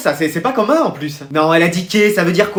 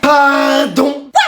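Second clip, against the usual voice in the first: high, drawn-out mock outrage; indignant disbelief; 3 semitones higher, much slower than usual. Child reacts to soup being left, indignant. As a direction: exclaim it, scandalized and high.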